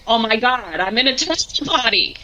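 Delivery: usual speaking voice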